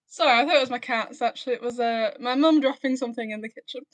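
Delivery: breathless after running upstairs; talking while catching breath. Real, not acted. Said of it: "just ran upstairs".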